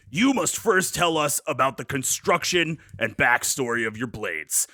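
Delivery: booming hyped call to warriors; wrestler announcer. Pretend. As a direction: hype them up like a wrestler. Addressing contestants as Goldberg.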